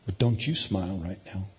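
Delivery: low playful warning; mock-stern command. Dad daring his son, low mock-stern. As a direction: forbid it teasingly, pitch dropped.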